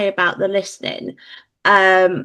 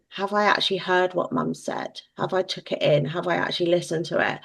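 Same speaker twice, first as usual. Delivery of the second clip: put-on kids muttering; 7 dB quieter than usual. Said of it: "they'll go".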